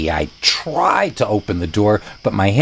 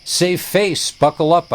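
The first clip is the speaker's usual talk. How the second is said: voice cracking; 8 semitones higher than usual. Retold or imitated. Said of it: "I stuttered, trying to sound cool".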